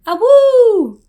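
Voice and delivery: high loud howl; wolf howl. Pretend. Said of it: "Just as intimidating as that was".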